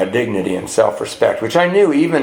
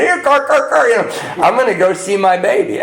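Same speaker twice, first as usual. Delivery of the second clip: much higher, calling the car like a lost pet; sing-song call to the car, pitched way up; 10 semitones higher than usual. Retold or imitated.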